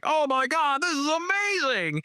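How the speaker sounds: high, thrilled audience cry of amazement; excited gasp. Retold or imitated. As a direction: squeal it like a stunned fan at a premiere. Crowd reaction at festival screening.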